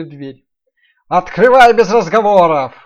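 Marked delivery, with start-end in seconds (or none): 1.1-2.7 loud rough wolf bellow. Acted. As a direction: bark it like a big bad wolf. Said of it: "раздался грубый голос волка".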